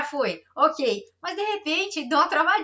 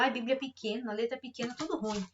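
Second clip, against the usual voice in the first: mock whiny complaint; 6 dB quieter than usual. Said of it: "é como se disséssemos ao Senhor".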